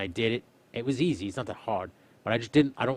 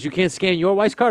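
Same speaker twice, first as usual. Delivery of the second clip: high, loud and slow disbelieving question; higher, louder indignant customer; incredulous customer; 10 semitones higher, 10 dB louder than usual. Retold or imitated. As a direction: play the pushy customer.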